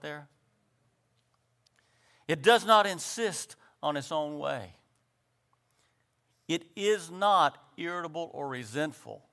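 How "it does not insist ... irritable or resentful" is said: phrase-by-phrase scripture reading; slow, deliberate reading. Shown as a demonstration. Preacher reading Corinthians so each phrase sinks in, slow reading. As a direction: read it out with a pause after each phrase. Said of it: "a little phrase by phrase".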